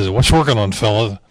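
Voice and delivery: a lisping Leon impression; lisping boss. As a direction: lightly lisp it like the boss. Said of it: "He had a little lisp".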